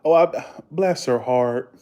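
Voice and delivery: slow Southern drawl; Southern accent demo. Shown as a demonstration. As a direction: drag out the sympathy in Southern style. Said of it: "You don't hear that in Vegas".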